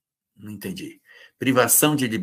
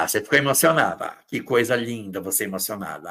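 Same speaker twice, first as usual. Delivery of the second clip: mock mocking; faster than usual. Acting a mocking partner.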